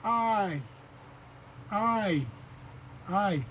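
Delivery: I said as a clear ee sound; I, I, I said as a demonstration; native word I. Shown as a demonstration. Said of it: "this word".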